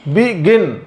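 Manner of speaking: बिगिन split in two, the final गिन stressed; teacher's demo of बिगिन, landing firmly on गिन; stress on second syllable. Shown as a demonstration. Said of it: "इसमें दूसरे वाले syllable पर". (बिगिन के दूसरे हिस्से गिन पर ज़ोर)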